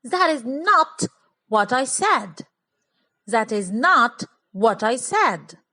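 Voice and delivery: slow, "not" hit hard and held; stress on not. Shown as a demonstration. Teacher stressing "not" for the class. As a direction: lean into "not" to insist, slowly. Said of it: "so I'm emphasizing something".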